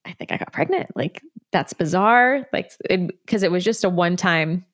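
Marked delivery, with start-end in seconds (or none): 0.0-2.5 whispering. Retold or imitated. Retold inner thought, whispered.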